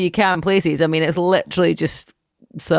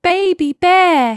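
excited; 13 semitones higher, 6 dB louder, much slower than usual. Real, not acted. Excited about nephew.

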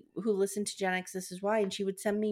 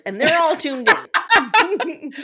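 slow, loud, higher words through laughter; laughing; 7 semitones higher, 11 dB louder, much slower than usual. Real, not acted. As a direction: drag it out, laughing. Laughing joke about listeners.

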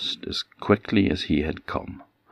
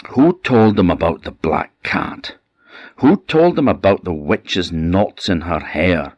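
witch cursing; 2 semitones higher, 4 dB louder than usual. Acted. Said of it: "the old witch stamped her feet and she cursed".

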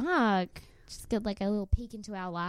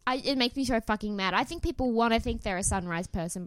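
ordinary talk, nothing marked

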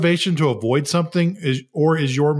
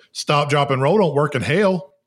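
put-on Southern accent. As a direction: imitate a funny kid's Southern saying. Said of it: "with the most Southern accent you can".

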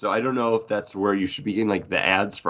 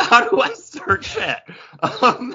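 mimicking, high; 13 semitones higher, slower than usual. Mimicking Paul's confusion.

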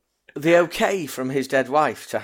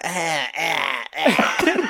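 imitated moaning; much slower than usual. Podcaster re-enacting the noises heard in the cemetery, mock moans. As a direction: imitate film grunts, rising sharply in pitch.

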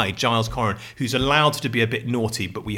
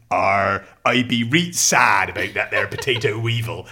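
lightly hammed-up West Country farmer; a pretend yokel lamenting, laughing through it; mock West Country; 4 semitones lower than usual. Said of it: "Where I can use this accent".

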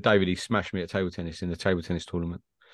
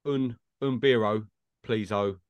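mock Spanish; slower than usual. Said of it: "putting O's on the end".

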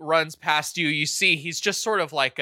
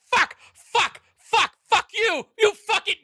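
angry swearing; 4 dB louder than usual. Acted. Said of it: "He's like".

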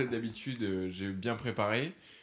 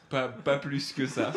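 laughing; 2 semitones higher, 4 dB louder, slower than usual. Real, not acted. Laughs while answering.

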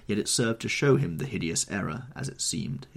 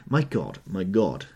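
louder anguished exclamation; horrified cry; 6 dB louder than usual. Acted. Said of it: "he cried".

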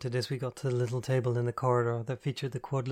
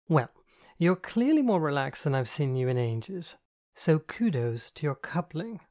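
higher, louder camp teasing voice; flamboyant friend, teasing; 4 semitones higher, 4 dB louder than usual. Acted. Andy teases Catherine about her date, higher and camp.

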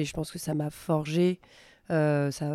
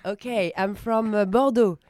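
lightly put-on, higher sociable English; playacted backpacker small talk; 3 semitones higher, slower than usual. Backpacker introducing herself to imagined tourists, playacted small talk. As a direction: play at chatting up hostel travellers. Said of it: "Elle fait tous les personnages".

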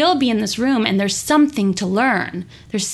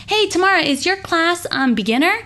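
a lightly voiced, higher timid student asking; mimicking a newcomer; 6 semitones higher than usual. Imitating students asking Tamara about her class level, lightly timid. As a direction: play the hesitant beginner asking about level.

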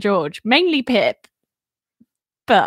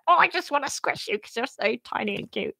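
cutesy squeal; 3 semitones higher, 7 dB quieter than usual. Retold or imitated. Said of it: "you're just like".

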